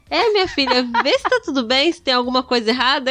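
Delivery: put-on old man voice. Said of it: "Aí ele".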